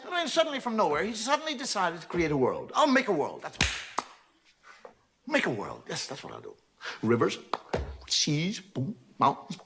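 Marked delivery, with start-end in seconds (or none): 2.8-9.6 God creating. Retold or imitated. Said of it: "Perfect sound effects".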